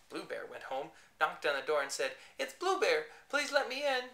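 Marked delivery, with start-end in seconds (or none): 2.4-4.1 high, loud silly yellowy voice. Acted. Painted bear pleading at his own door, yellowy. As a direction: make it sound yellow. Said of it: "in a yellowy sort of voice".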